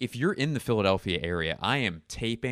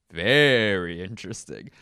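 loud; 7 dB louder than usual. Pretend. Catchphrase said twice, louder.

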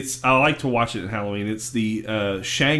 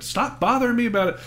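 higher, quick mock-irritated brush-off; annoyed brush-off; 10 semitones higher, faster than usual. Squidward telling SpongeBob to leave him be, quick mock annoyance. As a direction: imitate a pestered neighbor, pitched up and hurried. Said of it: "of course, is annoyed".

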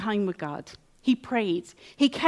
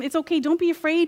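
reassuring Elisha; 6 semitones higher than usual. Retold or imitated. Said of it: "Elisha assures him".

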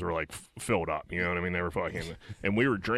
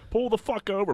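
higher, urgent "pull over" command; urgent retold yell; 13 semitones higher than usual. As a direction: demand he pull over now. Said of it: "I'm like".

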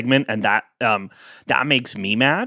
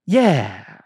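solid yeah. Shown as a demonstration. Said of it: "remember to always say".

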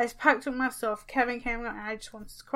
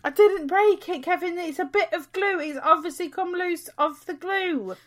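higher-pitched protest; indignant self-defence; 5 semitones higher than usual. Real, not acted. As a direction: defend yourself against unfair blame, pitched up. Defends herself against blame.

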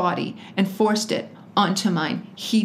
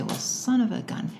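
softly mimicked catchphrase with a stretched SON; imitating dad's catchphrase; 3 semitones higher, 4 dB quieter than usual. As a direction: quote dad in his certain tone, softly. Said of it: "it's in a certain tone".

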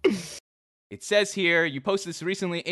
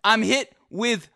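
laughing while telling; 5 semitones higher, 3 dB louder than usual. Real, not acted.

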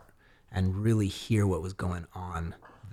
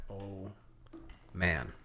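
dismayed; 4 semitones lower, 13 dB quieter than usual. Retold or imitated. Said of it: "And I was like".

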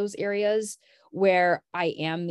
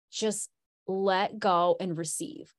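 calming self-talk; 2 semitones lower, slower than usual. Retold or imitated. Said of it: "I literally was like".

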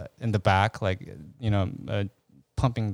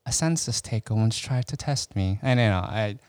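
Lecter quote. Retold or imitated. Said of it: "Silence of the Lambs quote".

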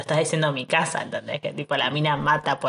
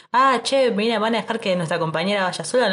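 higher, imitated soldier's protest; mock indignant appeal; 5 semitones higher than usual. Él increpa a los demás soldados, mock indignant. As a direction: pitch it up as a comrade objecting.

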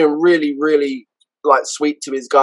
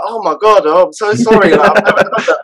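fake apology; 4 semitones higher than usual. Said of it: "So I act all like".

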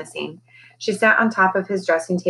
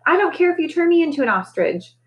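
defiant parrot; 10 semitones higher than usual. Acted. Parrot defiant after outburst.

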